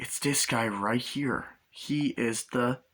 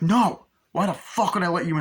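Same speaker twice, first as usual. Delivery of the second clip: high, loud, indignant retort; acted angry refusal; 7 semitones higher, 5 dB louder than usual. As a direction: turn the stranger away, outraged. Driver refusing entry angrily.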